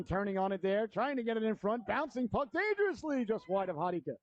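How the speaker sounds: brisk live play-by-play; hockey announcer. Real, not acted. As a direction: call the game as it happens.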